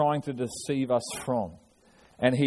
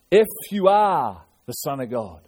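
tempter's taunt; 4 dB louder than usual. Retold or imitated. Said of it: "he comes and he says this".

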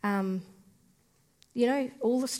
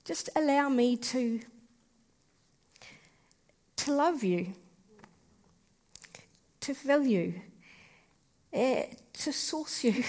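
gentle invitation; 3 semitones higher than usual. Acted. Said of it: "he says".

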